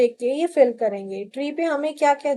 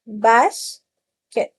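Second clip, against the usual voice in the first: "बास्केट" drawn out slowly; slow second take; 3 dB louder, much slower than usual. Shown as a demonstration. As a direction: repeat "बास्केट" slowly for the children. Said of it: "split करके सिखाइए". ("बास्केट" धीरे-धीरे खींचकर)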